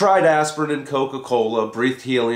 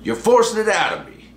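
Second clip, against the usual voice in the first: high, grudging guru voice; reluctant confession; 11 semitones higher than usual. A narrator's reading. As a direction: give it up unwillingly. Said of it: "says Boba Fats".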